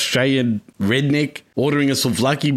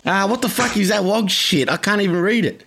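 mock Aussie redneck; 6 semitones higher than usual. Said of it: "looking at it like".

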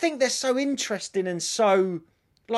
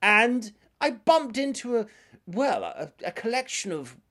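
posh Londoner. Retold or imitated. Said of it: "she's going".

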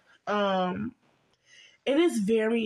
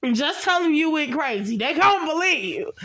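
higher, louder urgent plea to his mother; pleading son; 5 semitones higher, 4 dB louder than usual. Retold or imitated. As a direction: beg her to lie in court, a bit raised. Franklin begs his mother.

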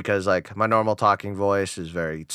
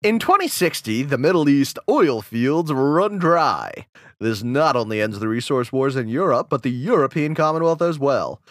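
announcer voice. Acted. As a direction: read it like a TV news anchor. Reads Fallout timeline in announcer voice.

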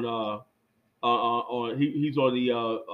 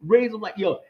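MC hyping the crowd, a bit louder and higher; hyped club MC; 5 semitones higher, 3 dB louder than usual. Retold or imitated. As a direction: pump up the dance floor like an MC. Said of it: "And he goes".

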